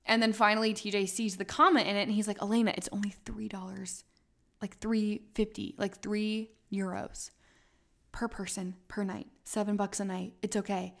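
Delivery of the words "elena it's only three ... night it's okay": softly whispered, calming her down; hushed reassurance. Retold or imitated. Friend reassuring panicked Elena, soft whisper. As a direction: quietly talk her off the ledge.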